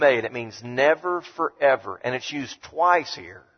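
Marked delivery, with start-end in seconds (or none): 0.6-2.0 "never, forever" with each word stressed. Shown as a demonstration. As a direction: lean on "never" then "forever". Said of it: "It's a Greek statement".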